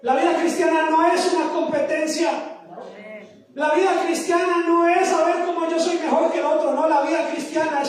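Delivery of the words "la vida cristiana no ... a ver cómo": firm, projected proclamation; emphatic preaching. Real, not acted. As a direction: drive the point home from the pulpit. Repeats after "¿Aló?" to unresponsive audience.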